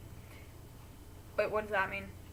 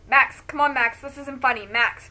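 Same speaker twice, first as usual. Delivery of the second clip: choked out; 3 semitones higher, 9 dB louder than usual. Acted. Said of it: "Malvo chokes out".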